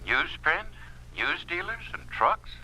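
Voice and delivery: smug, knowing list of threats; veiled menace. Acted. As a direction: let the threat hang in each word. Official hints at veiled threats.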